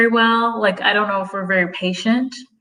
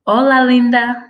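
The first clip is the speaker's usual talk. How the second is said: Hola, linda called out louder, pitch up; a cheerful loud Hola, linda; bright greeting; 4 semitones higher, 5 dB louder than usual. Shown as a demonstration. Greeting a viewer back, a bright loud Spanish hello. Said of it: "I know that probably sounds terrible".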